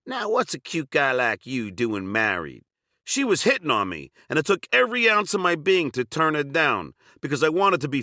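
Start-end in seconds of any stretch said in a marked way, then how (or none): 0.0-2.6 soft sexy Southern voice. Retold or imitated. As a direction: coo it like a Southern belle flirting. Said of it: "said in a soft, sexy Southern voice".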